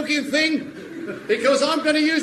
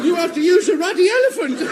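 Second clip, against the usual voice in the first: laughing mockery; 3 semitones higher, faster than usual. Warden mocks captain while laughing.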